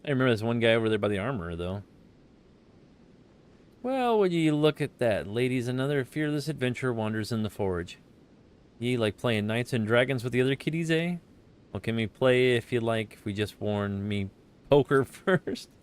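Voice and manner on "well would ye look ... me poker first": put-on pirate accent. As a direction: roll it out like an old sailor. Reads armorer dialogue.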